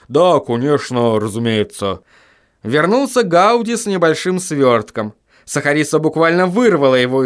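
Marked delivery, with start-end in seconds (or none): 0.1-2.0 unsure agreement. Acted. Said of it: "гномы неуверенно ответили хором".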